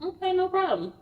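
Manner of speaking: very high, light acquiescence; high-pitched, hands-off compliance; placating retold reply. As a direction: imitate giving in to avoid trouble.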